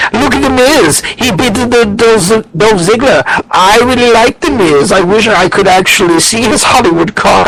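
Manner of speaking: high, put-on German accent mocking a fan; hammed-up German accent, pitched high. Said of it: "you sound like that guy from Sprockets".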